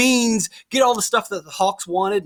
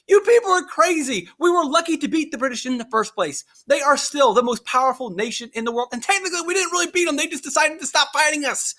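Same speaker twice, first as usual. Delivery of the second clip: higher, worried scolding voice; history teacher voicing alarmed Federalists, higher pitched; mocking Federalists; 6 semitones higher than usual. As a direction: play the panicked doubters, lightly. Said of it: "The Federalists, on the other hand, are saying".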